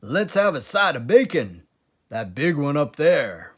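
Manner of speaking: loud, high eager Badger; excited Badger. A narrator's reading. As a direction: bounce with greedy joy. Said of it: "dancing with excitement".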